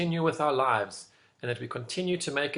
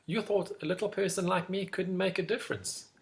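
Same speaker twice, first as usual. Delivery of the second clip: lightly voiced small mouse, higher; a hint of a little mouse, pitched up; 5 semitones higher than usual. Mouse speaking to the lion, lightly voiced and high. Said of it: "The mouse then said to the lion".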